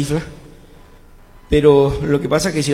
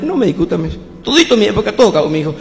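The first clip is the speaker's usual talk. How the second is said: put-on higher, agitated old man laying down the law; heated grandfather lecture; 5 semitones higher than usual. Grandfather warns grandson off a musician's life, agitated. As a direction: lecture him hotly as the grandfather.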